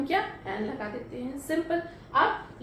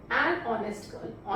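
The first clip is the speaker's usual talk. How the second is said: slow dictation; 4 semitones lower, much slower than usual. Shown as a demonstration. Teacher reading the answer slowly to students. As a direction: drag each word out for the class. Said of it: "एक बार देख लेते हैं सारे sentence अच्छे से".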